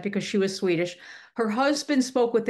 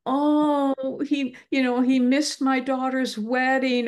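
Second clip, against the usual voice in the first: mock lament, a little higher; 4 semitones higher, slower than usual. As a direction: imitate a grieving parent's drawn-out complaint. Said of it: "when they'll lament".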